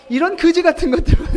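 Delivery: high, quick, loud and amused; hammed-up contempt breaking into laughs; laughing mock scorn. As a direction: scold through laughter. Mimics scorn while laughing.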